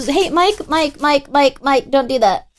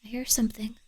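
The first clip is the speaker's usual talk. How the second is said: tense hushed whisper; whispering while straining to hear a sound; 12 dB quieter than usual. Real, not acted. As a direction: breathe it out, listening hard.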